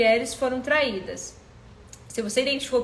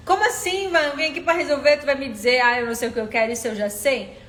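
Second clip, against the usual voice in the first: mock indignant objection; 4 dB louder than usual. Voicing a listener's objection.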